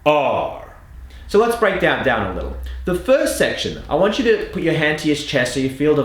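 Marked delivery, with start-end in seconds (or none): 0.1-0.6 "R" drawn out with a full American r; American R demo. Shown as a demonstration. Coach shows the drill's anchor, strong American "R". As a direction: hold "R" as a strong, crisp American sound. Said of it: "helps us establish the American R".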